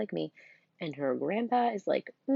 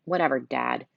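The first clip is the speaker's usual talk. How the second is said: put-on bored teenager; 3 semitones lower, 5 dB louder than usual. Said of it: "sounding like a bored teenager".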